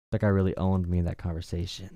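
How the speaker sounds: whisper. Real, not acted. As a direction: whisper it off the mic. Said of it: "aside after call".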